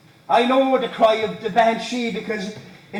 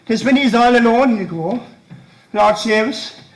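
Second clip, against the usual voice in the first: rising agitation; 2 semitones higher than usual. Acted. Son raving about dying father.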